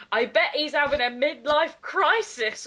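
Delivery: mock shout. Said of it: "Willow shouted".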